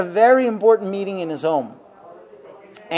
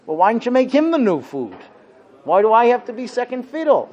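indignant husband; 3 semitones higher than usual. Retold or imitated. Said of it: "So what would you say?".

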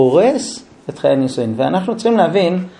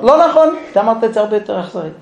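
indignant wife; 4 semitones higher, faster than usual. Acted. Wife accuses husband.

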